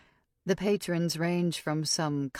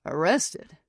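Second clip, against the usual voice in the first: shocked; 4 dB louder than usual. A narrator's reading. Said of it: "His eyes widen in shock".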